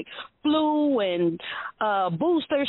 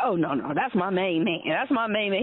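lower, relaxed impression of dad; imitating her father; 6 semitones lower than usual. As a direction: drop the pitch like a proud old father. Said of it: "He's like".

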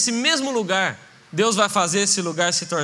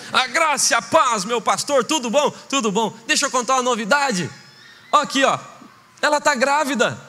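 proud announcement; 3 semitones higher than usual. Acted. Brother announcing pregnancy.

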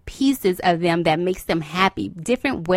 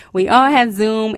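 emphatic; 3 semitones higher, 6 dB louder than usual. Shown as a demonstration. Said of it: "repeated louder".

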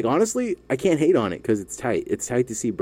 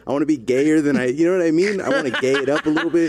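laughing; 6 semitones higher than usual. Real, not acted. Breaking up mid-impression.

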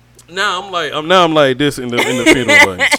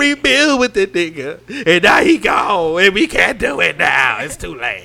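louder, slow, choked-up retelling; breaking down; 5 semitones higher, 7 dB louder, slower than usual. Retold or imitated. Telling his brother how he broke down, slow and louder. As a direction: let the grief break through slowly. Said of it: "I just broke down".

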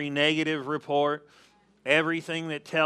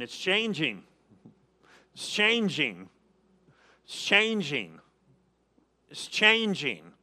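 confident affirmation. Shown as a demonstration. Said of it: "put that out by going".

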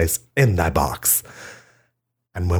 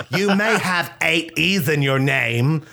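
wife's romantic line; 9 semitones higher than usual. Pretend. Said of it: "Portia de Rossi said".

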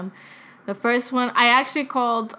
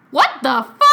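aunt's shocked reaction; 2 semitones higher, 5 dB louder than usual. Retold or imitated. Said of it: "her reaction was like".

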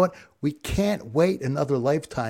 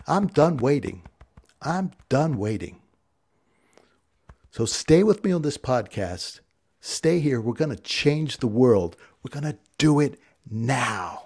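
fired up; 2 semitones higher, 3 dB louder than usual. Real, not acted. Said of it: "Fired up".

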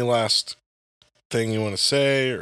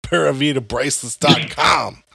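wrestling promo. Pretend. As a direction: sell it like a ring announcer. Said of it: "I'm gonna do a promo".

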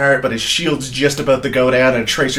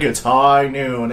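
mock McCree; much slower than usual. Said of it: "he's just like".

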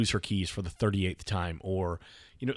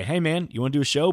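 quick, higher, chirpy ask; eager repeat invite; 5 semitones higher, 4 dB louder, faster than usual. Retold or imitated. Asking a friend the next day to record, eager. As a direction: pitch it briskly to a buddy. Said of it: "the next day".

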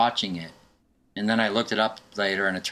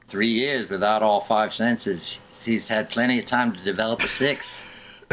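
put-on Australian accent; slower than usual. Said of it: "That's my horrible Australian accent".

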